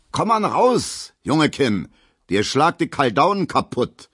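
yelling after him. A narrator's reading. Gustav yells a threat after the leaving Emil, loud. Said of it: "ruft Gustav Schmelow hinterher".

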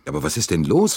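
annoyed. A narrator's reading. Director questioning the conductor about the full train, annoyed. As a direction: demand an explanation, irritated. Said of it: "fragte Bouc verärgert".

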